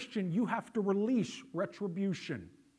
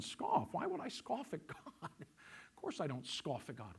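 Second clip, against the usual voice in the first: mock disbelief; 2 semitones lower, 5 dB quieter than usual. Pastor mimicking the congregation's indignant denial, incredulous. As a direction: play the offended churchgoer who laughs it off. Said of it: "you're all sitting there going".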